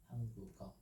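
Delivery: 한국어 with ㄱ carried over into 어; linked pronunciation. Shown as a demonstration. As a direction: say 한국어 with a soft linking g before the last vowel. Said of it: "softer touch now".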